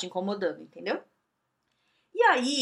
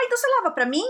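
cheeky hairdresser; 10 semitones higher, 4 dB louder, much faster than usual. Retold or imitated. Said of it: "deu pra ela e falou".

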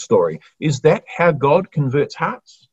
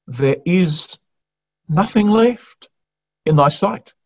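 high, slowed plea that rises on "left"; broken voice; 6 semitones higher than usual. Acted. Starving people begging their ruler, in a broken voice. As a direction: let the voice crack as a beaten people pleading. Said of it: "You can hear broken voices saying those words".

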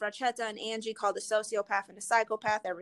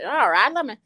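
ordinary delivery

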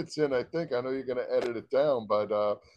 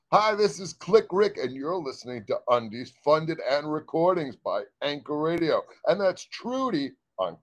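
radio announcer; 3 semitones higher than usual. Acted. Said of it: "second take of radio ID".

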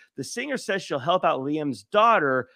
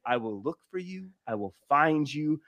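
mock-menacing threat, dropping lower at the end; Liam Neeson; 4 semitones lower than usual. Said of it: "we get the legendary phone call".

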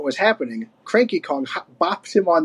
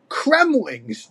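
high, drawn-out alarm; horrified gasp; 7 semitones higher than usual. A narrator's reading. Diddy finding the smashed chair, horrified. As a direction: cry it out in mild horror. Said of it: "Diddy gasped in horror".

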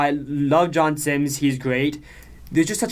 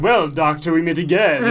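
hint of a gloating villain, louder; lightly hammed Bond villain; mustache twirling villain; 4 semitones higher, 5 dB louder than usual. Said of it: "mustache twirling".

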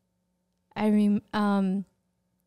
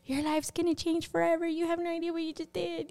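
higher, soft, quick retold voice; imitated church lady; 7 semitones higher, 7 dB quieter, faster than usual. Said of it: "a lady in the church saying".

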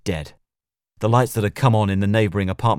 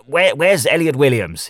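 loud, sharp demand; barking; 6 semitones higher, 7 dB louder than usual. A narrator's reading. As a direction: bark the question at him. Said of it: "he barked at Leon".

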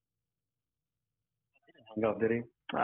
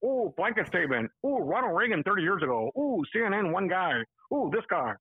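a raised, sneering imitation of the other guy; mock him in a higher, taunting voice; 4 semitones higher than usual. To his opponent on the call, a higher mocking imitation. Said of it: "I'm imitating in this voice".

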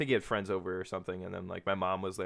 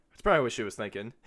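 laughing whisper; 3 semitones higher, 7 dB louder, faster than usual. Real, not acted. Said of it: "laughing aside whispered".

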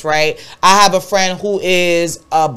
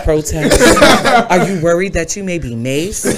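infomercial. Pretend. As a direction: pitch it like a TV ad. Jokes a product pitch.

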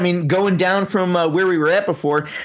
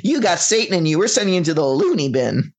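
mock parent scolding. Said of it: "her parents saying".

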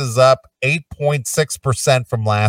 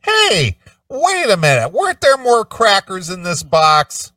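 mock surprise; 3 semitones higher than usual. Mock shopper noticing fewer crackers.

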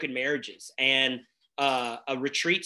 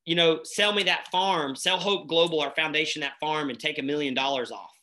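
joking. Retold or imitated. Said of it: "I made a joke and I said".

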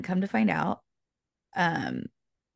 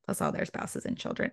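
whispered repeat; 7 dB quieter than usual. Shown as a demonstration. Repeating the relatives list to the listener, whispered. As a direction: whisper the phrase again as a hushed aside.

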